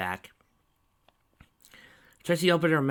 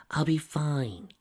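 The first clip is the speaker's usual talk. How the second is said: confident; 6 semitones higher, much slower than usual. A narrator's reading. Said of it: "Lyra said confidently".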